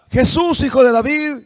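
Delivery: high, loud cry for attention; blind man calling out. Acted. Blind man calls to Jesus over the crowd, calling out.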